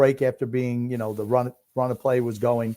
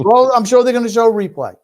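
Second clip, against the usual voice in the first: mock announcer; 9 semitones higher, 9 dB louder than usual. Mocking co-host's commentary.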